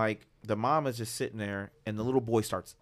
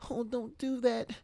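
mock timid white parent; 13 semitones higher, slower than usual. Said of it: "they be like".

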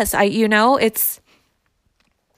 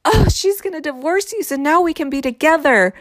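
imagined gleeful mistress; 6 semitones higher than usual. Retold or imitated. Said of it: "like she's looking at him like".

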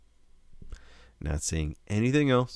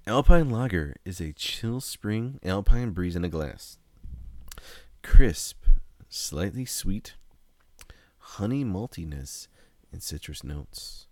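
lightly voiced beer ad read; commercial voice; slower than usual. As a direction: read it like a mild TV beer spot. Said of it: "Sounds like a commercial".

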